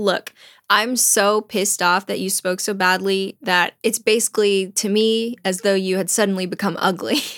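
normal talking voice

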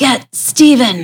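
scratchy rasping voice. Retelling what a man said after he switched back, imitating his raspy voice. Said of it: "he goes back to his raspy voice".

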